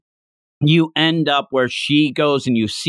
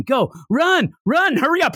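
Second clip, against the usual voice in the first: high, urgent yelled cheer; mock screaming; 12 semitones higher than usual. Classmate screaming at the girl to run after him. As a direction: yell at her to run, hamming it up. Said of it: "He's just screaming at her".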